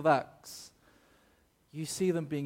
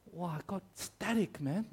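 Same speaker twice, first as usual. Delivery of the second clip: amazed Singaporean auntie, higher and softer; lightly put-on Singaporean accent, pitched up; 4 semitones higher, 6 dB quieter than usual. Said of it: "one of those old Singaporean aunties".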